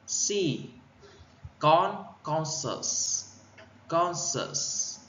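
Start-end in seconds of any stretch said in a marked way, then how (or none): 1.6-5.0 "conscious" as CON-scious, high then falling; first-syllable stress. Shown as a demonstration. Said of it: "Nhấn âm, âm một". (nhấn âm một của "conscious")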